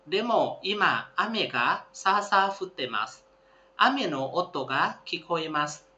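careful classroom read-aloud; slow textbook reading. Shown as a demonstration. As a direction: read each phrase slowly and clearly for learners. Class reads the text again.

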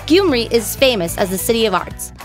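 ordinary talk, nothing marked

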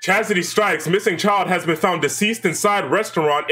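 newsreader cadence, rising at shocking bits; news report read-aloud. Acted. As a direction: read the grim report like an anchor.

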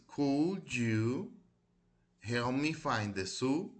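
model pronunciation. Shown as a demonstration. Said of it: "ya las repetí varias veces".

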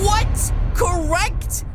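sharp startled outburst; shocked what. Real, not acted. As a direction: react in disbelief. Shocked at wrong answer.

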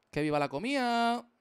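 cartoon character cheer. Streamer voices his drawn character cheering for food. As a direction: cheer like a greedy cartoon glutton.

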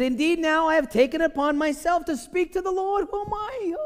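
very high, loud, hammed-up Jewish accent. Abraham humbly dares to address the Lord, hammed-up Jewish accent. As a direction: climb to a squeaky, comic Jewish accent. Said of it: "I need to get my Jewishness on right now".

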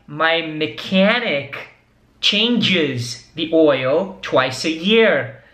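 very slow, each word drawn out; slow model answer. Shown as a demonstration. Teacher models the mechanic's answer for students, very slowly. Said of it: "ele responde a última frase".

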